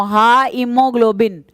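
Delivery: हा इमोग्लोबिन spelled out slowly in parts; syllable by syllable. Shown as a demonstration. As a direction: break हा इमोग्लोबिन into slow chunks. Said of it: "ऐसे तोड़ तोड़ के याद करोगे". (हा इमोग्लोबिन टुकड़ों में धीरे धीरे)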